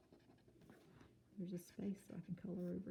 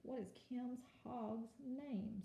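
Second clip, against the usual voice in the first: slow, soft read; 4 semitones higher, 5 dB quieter, slower than usual. Shown as a demonstration. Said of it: "model reading of question".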